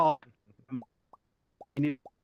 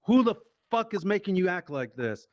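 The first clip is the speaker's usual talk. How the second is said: scolding dad; 5 semitones higher, 3 dB louder than usual. Retold or imitated. Acts out dad's interrogation.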